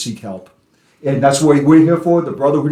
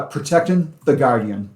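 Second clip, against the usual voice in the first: Boston accent, Protectin with the g dropped; casual Boston accent, clipped ing. Real, not acted. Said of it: "protecting is my Boston accent".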